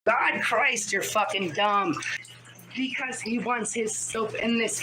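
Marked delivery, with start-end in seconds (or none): 0.1-1.9 heated insults at chat; angry rant. Real, not acted. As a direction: snap at the troll. Yelling insults at chat troll.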